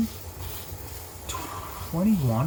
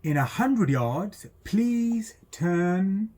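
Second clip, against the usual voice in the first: sat nav voice; 4 semitones higher, much slower than usual. Retold or imitated. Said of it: "the sat nav goes off again".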